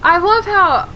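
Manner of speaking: dry sarcastic tone. Real, not acted. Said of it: "I'm saying that sarcastically right now".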